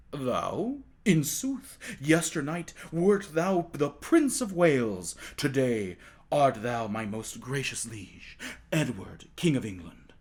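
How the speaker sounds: a hint of a solemn attendant; the courtier gravely telling Tom he is king, slow and respectful; lightly voiced courtier.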